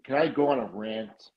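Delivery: talking with a numb mouth. Real, not acted. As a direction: lips numb, words a bit slurred. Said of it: "my mouth is numb".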